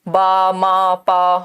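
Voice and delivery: "बा, मा, पा" each drawn out on a low level note; single syllables. Shown as a demonstration. Teacher demonstrating one-syllable babbling, low drawn-out syllables. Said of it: "एक syllable है".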